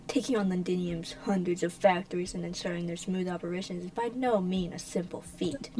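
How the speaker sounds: hushed, sinister whisper; whispered villain. Acted. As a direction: breathe it like a sly schemer.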